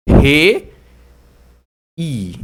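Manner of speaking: falling-diphthong demo, strong RE and faint I; weaker final I. Shown as a demonstration. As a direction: hit re hard, pause, let i drop away. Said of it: "o som já é um pouquinho mais fraquinho".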